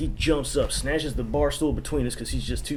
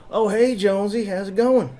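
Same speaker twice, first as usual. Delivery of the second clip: higher, louder, hearty hello; friendly greeting; 8 semitones higher, 5 dB louder than usual. Retold or imitated. Wally greets his friend Jonesy, high and loud. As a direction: greet an old buddy loudly.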